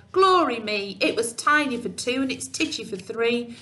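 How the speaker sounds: put-on mildly exasperated old lady; a touch of fuss about the fleas; fretful old lady. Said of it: "The little lady cried".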